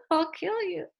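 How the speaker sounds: laughing through a mock threat; joking menace with a laugh. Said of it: "They're like".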